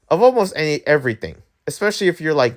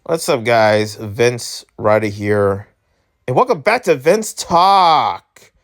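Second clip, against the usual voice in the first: show intro; 5 semitones lower, slower than usual. Acted.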